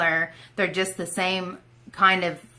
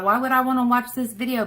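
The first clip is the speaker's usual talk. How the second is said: mock viewer; 7 semitones higher, faster than usual. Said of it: "You thought".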